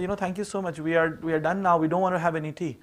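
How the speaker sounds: softly spoken, courteous decline; quiet, well-mannered thanks; polite refusal. Retold or imitated. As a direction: turn it down gently and politely. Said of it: "we said very politely".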